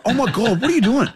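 high amazed gasp at the pass; mock amazement. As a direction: play the stunned teammates. Voicing amazed English teammates.

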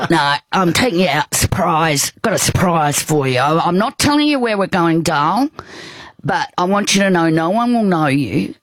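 lightly imitated friend promising a surprise; a hint of an insistent friend's voice; friend's put-on voice. Friend keeping the destination secret from the patient, lightly put-on voice. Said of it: "I always do a voice like that".

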